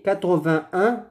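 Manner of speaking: quatre-vingt-un with no t before un; sans « et ». Shown as a demonstration. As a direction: contrast model, quatre-vingt-un going straight from vingt to un. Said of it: "Ce n'est pas quatre-vingt-et-un". (quatre-vingt-un, sans « et », t muet)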